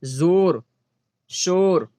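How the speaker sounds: जोर, शोर with an open "o", not "oo"; majhool vowel demo. Shown as a demonstration. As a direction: say जोर, शोर singly with a plain o. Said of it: "लेकिन खींच कर ना पढ़ा जाए".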